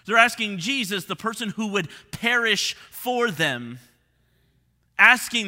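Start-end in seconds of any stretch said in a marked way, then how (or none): none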